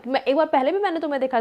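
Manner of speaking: retold angry rant. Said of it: "गुस्सा हो गई बहुत".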